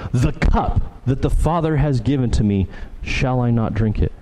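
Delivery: "The cup" set apart up front, question following; emphasis on CUP. Shown as a demonstration. Preacher rereading the verse in Greek order, stress on "The cup". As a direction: punch "The cup", short pause, then the rest. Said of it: "the way that we, we would read this".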